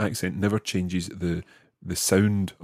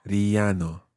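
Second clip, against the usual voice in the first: staccato. Shown as a demonstration. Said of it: "Try that syllable by syllable".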